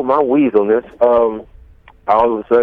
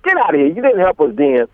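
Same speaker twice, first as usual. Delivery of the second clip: raised, higher angry retort; a retold cussing-out, pitched up; mock cursing out; 6 semitones higher than usual. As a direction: chase them out of the room. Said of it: "but I'm cursing".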